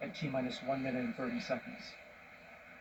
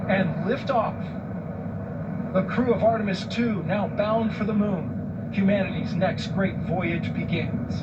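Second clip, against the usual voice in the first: building to a soaring, slow liftoff call; rising thrill, louder and higher at liftoff; excited launch call; 4 semitones higher, 5 dB louder, slower than usual. Real, not acted. Launch countdown climax, liftoff call.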